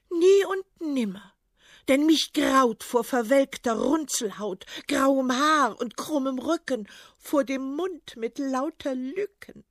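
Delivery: high, loud, disgusted refusal; disgusted princess. Acted. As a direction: shudder and refuse outright.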